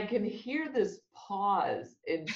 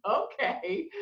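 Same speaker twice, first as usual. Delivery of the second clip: high reluctant okay; 11 semitones higher than usual. Retold or imitated. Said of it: "And she's like".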